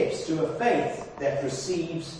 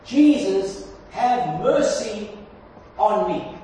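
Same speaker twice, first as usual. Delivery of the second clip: mildly raised, slow plea; crying out; slower than usual. Acted. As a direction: call out for mercy in measured bursts. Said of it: "He began to cry out".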